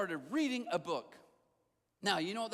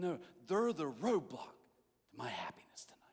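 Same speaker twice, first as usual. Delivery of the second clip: muttered grumble; 5 semitones lower than usual. Retold or imitated. Retold inner grumbling.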